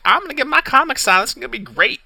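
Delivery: bubbling fan about to get his comic signed; giddy excitement. Retold or imitated. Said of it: "sitting there all excited".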